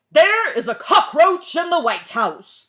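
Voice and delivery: loud high alarmed shout; President shouting. A narrator's reading. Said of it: "the President shouted".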